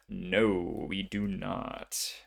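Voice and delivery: slow, let-down admission; deflated, drawn-out delivery; resigned. Real, not acted. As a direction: draw it out in mild disappointment. Failed roll, resigned reaction.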